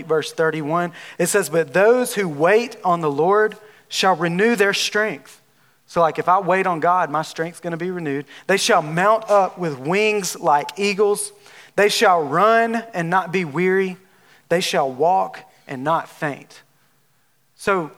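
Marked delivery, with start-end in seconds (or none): 1.5-5.4 scripture reading. Acted. Reads Isaiah scripture aloud. 8.5-16.6 slow, deliberate reading of the verse; measured pulpit reading of Isaiah; solemn scripture reading. Acted.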